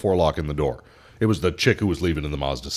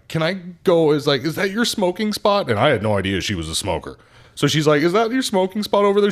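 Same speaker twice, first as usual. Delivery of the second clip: high, breezy questions; high mock customer; 11 semitones higher, 3 dB louder than usual. Customer suddenly asks about smoking, high mock voice. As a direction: ask it high and bright like her. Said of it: "And so she's like".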